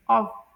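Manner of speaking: ऑफ ending in v, not f; correct pronunciation. Shown as a demonstration. Teacher confirms the v sound, correct pronunciation. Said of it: "इसमें वी की sound निकलती है".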